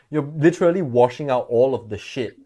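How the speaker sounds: laughing as he talks; words broken up by laughter. Real, not acted. Laughing through explanation.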